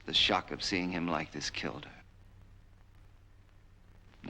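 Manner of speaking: very slow, heavy words; grieving slowly. Acted. Son to his captive about his dead mother, slow and heavy. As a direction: let each word drag with grief.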